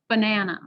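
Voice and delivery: banana with a clear, longer middle NA; middle syllable stressed. Shown as a demonstration. Teacher repeating the example for students, banana stressed on the middle. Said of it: "and the vowel and the consonant are".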